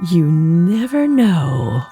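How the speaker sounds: slow, mysterious fortune teller with a laugh; coy psychic chuckle; Psychic Penny. Acted. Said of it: "Psychic Penny".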